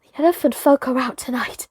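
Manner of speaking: rising to an awed cry on "the dance"; building from hushed to thrilled; excited. Acted. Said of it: "his teeth chattering".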